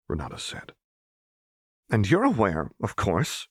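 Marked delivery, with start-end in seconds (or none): 1.9-3.5 tight mocking echo; echoed tightly. Seraphine echoes Renata's words back tightly. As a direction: throw her words back, tense. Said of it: "Seraphine echoed tightly".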